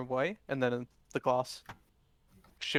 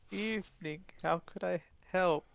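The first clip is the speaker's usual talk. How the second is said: meek; 4 semitones higher than usual. Acted. Shopkeeper meekly greets a customer at the counter, meek. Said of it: "meekly makes his way over to you and goes".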